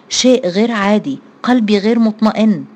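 a touch of worry, lightly voiced; uneasy, mildly anxious; worried. Hana to her family as the TV cuts out, mildly worried. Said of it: "وقالت هناء بقلق".

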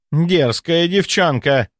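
high, slow, offended retort; indignant. A narrator's reading. Old lady of state scolding a girl, indignant. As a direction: bristle at the insolent girl. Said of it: "возмутилась статсдама".

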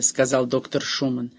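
plain reading voice

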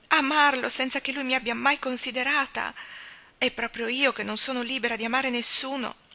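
anguished confession. Acted. Leslie owns a love she is not free for, anguished.

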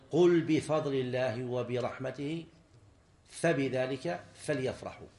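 slow, measured verse recital; deliberate, slow scriptural quotation; Quranic recitation. Shown as a demonstration. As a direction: recite the verse with drawn-out syllables. Teacher recites verse as example.

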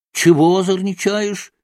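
shouting. A narrator's reading. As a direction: yell at the troublemaker. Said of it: "закричал мещанин". (сердитый крик мещанина)

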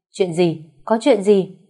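jolted awake and flustered. Acted. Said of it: "ngơ ngác cuống quýt". (hoảng hốt hỏi dồn)

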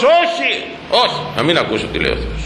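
high first no, then dropping into a quick refusal; mock stubborn refusal. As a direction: play someone refusing to listen. Acted stubborn refusal to listen.

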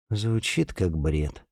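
slow, soft, dejected; glum. Acted. Alya, answering Alina's verdict: glum and deflated. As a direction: let it sag, hopeless. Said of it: "уныло сказала Аля".

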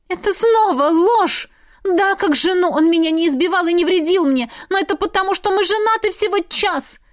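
high, loud desperate outburst; desperate cry. A narrator's reading. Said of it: "отчаянно воскликнула я".

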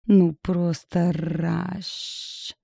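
slow, languid purring. Acted. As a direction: drag it out lazily, like a purr. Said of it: "томно проурчала". (томно, медленно, мурлыкая)

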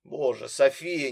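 plain reading voice

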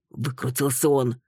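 plain reading voice

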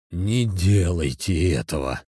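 slowed, lightly voiced plea; pleading. A narrator's reading. Задержанный умоляет оперативника, lightly voiced plea. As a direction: beg them not to do it. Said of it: "взмолился Рябушкин".

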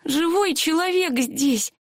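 slow high ghostly wail; thin squeaky ghost crying out; helium voice. A narrator's reading. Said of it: "тоненьким голосом произнёс призрак".

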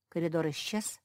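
plain reading voice

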